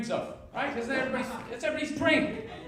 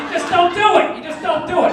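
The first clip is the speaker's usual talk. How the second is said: mock-righteous lecturing shout; loud mock lecture; 6 semitones higher, 10 dB louder than usual. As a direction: shout the line, louder, higher. Repeated emphatic mock sermon.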